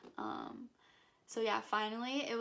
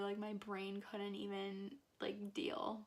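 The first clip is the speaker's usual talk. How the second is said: whisper; 5 dB quieter, slower than usual. Real, not acted. Overwhelmed after meeting her idol.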